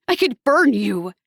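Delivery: loud furious screech. A narrator's reading. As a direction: screech the threat at him. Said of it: "I screeched".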